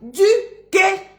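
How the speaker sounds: high, slow "é-du-quer" for "éduquer"; stretched-out "éduquer"; class repetition. Shown as a demonstration. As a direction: lead a chorus of "éduquer" by syllable. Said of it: "on répète tous ensemble".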